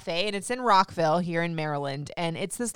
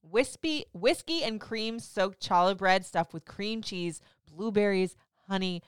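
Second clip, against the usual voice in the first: sexy voice. Acted. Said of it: "I got my sexy voice on for that".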